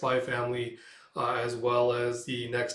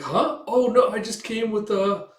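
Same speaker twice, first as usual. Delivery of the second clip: higher, louder startled denial; flustered Yor; 8 semitones higher, 6 dB louder, slower than usual. Acted. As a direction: scramble to explain.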